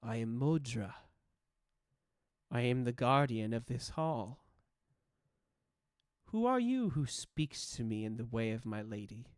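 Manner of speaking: lightly voiced old guardian, measured and halting; a hint of grumbling grandmother, spoken with long pauses; Modra. Ancient guardian questioning a stranger, lightly voiced grumbling grandmother. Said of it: "a grumble and an old grandmother's voice say".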